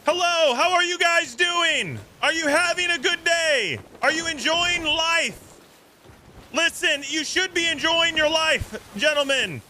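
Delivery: high, slow, goofy greeting voice; cartoonish hippo host voice. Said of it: "Why do you have a hippo, like, voice?".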